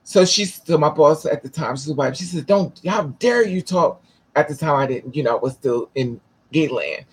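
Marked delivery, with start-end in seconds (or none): 2.4-4.0 higher, slow mock scolding; mock indignation. Retelling the boss confronting a rude coworker, mock indignation. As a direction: imitate an affronted boss without raising volume.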